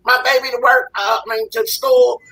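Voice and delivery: high, pleading mock voice of a mother asking a favor; mock lazy mother. Man mocking a mother who dumps her kid on him, in a high whiny voice. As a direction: pitch it way up and whine like the mom.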